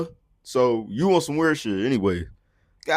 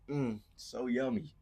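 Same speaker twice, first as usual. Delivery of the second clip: mock yummy; 16 dB quieter, slower than usual. Mocking CEO eating a burger.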